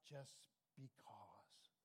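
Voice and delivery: whispered softly. Acted. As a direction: breathe it as a secret. Unvoiced whisper heard.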